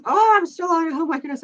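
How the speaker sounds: high-pitched surprised outburst, starting loud and easing off; startled realisation. Real, not acted. Streamer finding they are still live, startled. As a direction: blurt it out in surprise, pitched well up.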